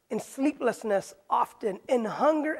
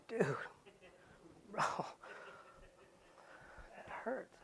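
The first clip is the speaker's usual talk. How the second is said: inner voice; 17 dB quieter than usual. Retold or imitated. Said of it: "I didn't say that, but inside, in my inner voice".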